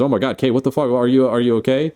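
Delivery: lightly acted shock, rushing into concern; mock alarm. Crewmate finds Kay screaming in the pod, mock alarm.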